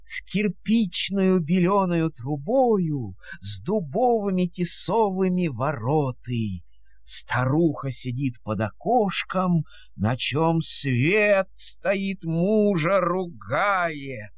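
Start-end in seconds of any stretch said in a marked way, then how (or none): none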